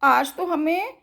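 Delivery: lightly voiced animal, fast and earnest; pleading animal. Forest animal pleading with sister Murph, fast and earnest.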